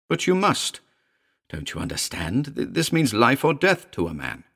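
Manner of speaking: urgent, high-pitched insistence; fervent plea; impassioned man. Acted. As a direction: implore her as if lives depend on it. Royds implores the woman.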